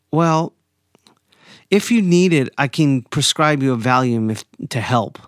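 imitating the doctor's patronizing tone; mock condescending attitude. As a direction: hand it over like he's a pill seeker. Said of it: "with a deeper attitude".

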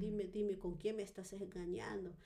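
mildly frantic, repeated insisting; insistent jealous demand. Retold or imitated. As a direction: re-enact a frantic demand for answers. Acted jealous, desperate demand to husband.

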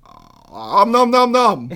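slow om nom nom munching; greedy smacking while eating. Pretend. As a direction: chomp it out slowly like a cookie monster. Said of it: "oh, I got one".

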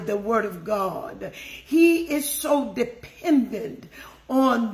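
emphatic, measured sermon cadence, key words stretched; preaching. Real, not acted. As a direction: expound scripture with weighty pauses between phrases. Expounds scripture to the congregation.

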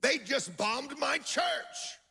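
slow, deliberate statement; calm slow report; slow quoted news. Retold or imitated. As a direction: say it slowly as the friend did. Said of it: "he said".

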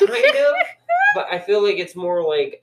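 talking through a laugh. Real, not acted. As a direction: laugh while getting the words out. Bursts out laughing mid-sentence.

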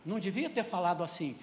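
ordinary talk, nothing marked

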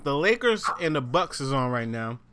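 talking while chewing candy; chewing between words. Real, not acted. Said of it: "Excuse the chewing".

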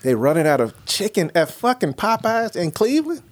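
high, disbelieving question; can you believe it; incredulous. Real, not acted. Host to co-host, stunned at Popeyes running out.

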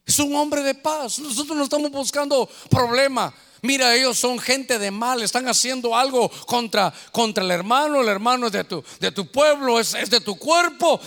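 earnest, pleading prayer to God; a pastor interceding for a kidnapped member; fervent prayer. Acted.

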